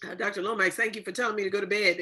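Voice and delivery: quick, laughing thanks. Real, not acted. Host thanking Doctor Lomax, laughing as she speaks. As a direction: laugh through the words.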